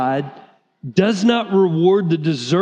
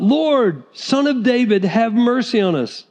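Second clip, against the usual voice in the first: louder plea; 4 semitones higher than usual. Retold or imitated. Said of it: "they only shouted louder".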